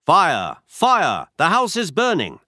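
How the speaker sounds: loud, rising cry of alarm; shouting fire. Acted. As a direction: yell the warning to the street. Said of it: "and I shouted".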